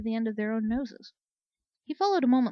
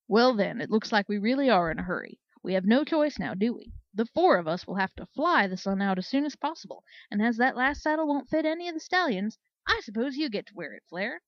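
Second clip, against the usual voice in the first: louder, booming mock-hearty delivery; gleeful teasing; 6 dB louder than usual. Commander teasing Flare that she must wear the saddle, louder and gleeful. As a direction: savour her comeuppance out loud.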